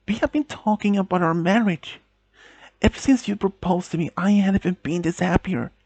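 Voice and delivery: desperate pleading. Acted. Girlfriend pleads, upset, with fiancé.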